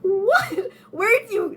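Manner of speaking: hoher, gedehnter Schockruf; shocked reaction. Retold or imitated. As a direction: spiel entsetzte Normalos nach. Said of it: "they would be like".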